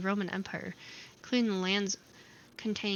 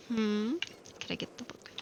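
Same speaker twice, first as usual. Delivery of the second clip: whispering; 4 dB quieter than usual. Real, not acted. Muttered aside to the player.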